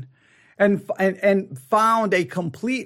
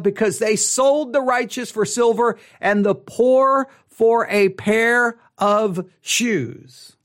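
measured solemn Bible reading; scripture reading. Acted. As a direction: read it out like a pulpit lesson. Reads Amos aloud.

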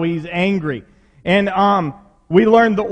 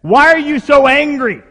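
naive question; 7 semitones higher, 6 dB louder than usual. Retold or imitated. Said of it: "I'd say this".

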